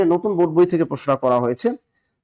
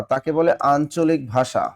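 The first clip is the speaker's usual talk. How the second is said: slow, deliberate teacher delivery; slow emphatic dictation; slower than usual. Shown as a demonstration. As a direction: spell out the answer slowly for students. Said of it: "মনে রাখবেন". (ধীরে, জোর দিয়ে বলা)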